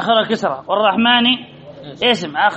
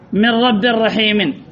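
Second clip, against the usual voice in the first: slow recitation; much slower than usual. Acted. Quoting a Quran verse slowly.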